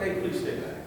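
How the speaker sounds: soft, sweetened polite request; buttered-up politeness. Shown as a demonstration. Coach butters up the warning for the camera, soft and polite. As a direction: gently coax someone to keep away. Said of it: "butter it up a little bit".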